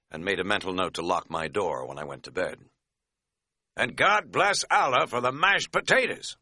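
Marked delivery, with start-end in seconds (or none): 3.7-6.4 high, exuberant mock blessing; happy. A narrator's reading. Hiker giving thanks for dinner, happily. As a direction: sing out thanks with gusto. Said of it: "said Katz happily".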